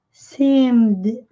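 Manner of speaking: "seemed" as one syllable, "seemd"; silent E in ending. Shown as a demonstration. Teacher models past tense, "seemed" with the final E silent. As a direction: drop the second-last E of "seemed", closing straight on "md". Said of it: "sem pronunciar a letra E".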